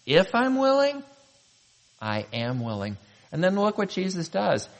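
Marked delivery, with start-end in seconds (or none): 0.1-1.0 incredulous question, pitched way up; Jesus. Acted. Jesus questioning the leper's "if", incredulous. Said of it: "hear him say". 2.0-3.0 low, soft, settled answer; Jesus. Acted. Jesus assuring the leper, quietly certain. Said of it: "The great I am is saying".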